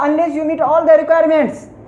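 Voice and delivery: slow, word by word, like dictating to a class; slow dictation. Shown as a demonstration. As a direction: spell it out slowly for students to write. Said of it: "इसी तरह से कह दीजिएगा". (धीरे-धीरे बोलकर लिखवाना)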